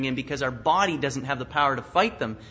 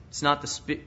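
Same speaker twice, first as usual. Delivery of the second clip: ordinary talk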